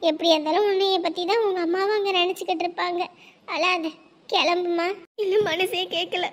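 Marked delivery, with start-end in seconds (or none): 3.5-6.3 gentle comfort. Acted. Comforting the crying bride.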